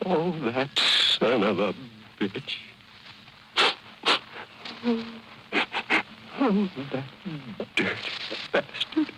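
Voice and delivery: hammed-up weepy wail, the last words a high unvoiced sob; mock crying. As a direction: wail the curse through fake tears. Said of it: "and she was crying".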